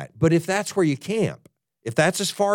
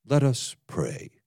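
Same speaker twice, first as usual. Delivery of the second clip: slow, solemn mock-reverent intoning; hammed-up holy voice to open prayer; venerable prayer voice; 2 semitones lower, 4 dB quieter, slower than usual. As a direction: draw it out like a pious elder. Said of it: "I'm not exaggerating at all".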